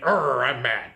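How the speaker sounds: lightly voiced comic pirate growl; a hint of pirate, just for fun. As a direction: play a mock-mad pirate. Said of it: "talking like a pirate".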